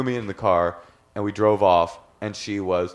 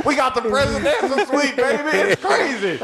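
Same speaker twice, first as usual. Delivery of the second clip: much higher, giggling through it; laughing. Real, not acted. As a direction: laugh the words out. Laughing at the story.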